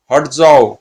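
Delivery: loud, urgent command to move away; sharp burst of acted alarm; acted shout. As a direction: shove them back with the voice. Attack amid the fiends.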